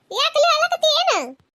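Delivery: high, startled question; startled concern. Acted. Woman finds her friend in tears, startled concern. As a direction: ask in alarm, pitch jumping up.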